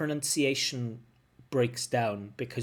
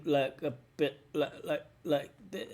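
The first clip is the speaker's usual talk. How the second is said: faltering sentence ending; 3 semitones higher than usual. Shown as a demonstration. Teacher showing candidates how not to end a turn, faltering. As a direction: stumble on 'like' as the sentence runs out. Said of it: "like this at the end".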